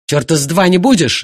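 husband yelling at his leaving wife. Acted. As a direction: shout her down. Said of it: "заорал он".

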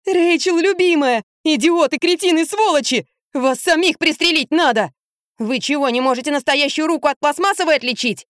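put-on high, furious child's rant; a boy scolds the doctors; angry boy. A narrator's reading. Boy rants at the vets over his dog, high and angry.

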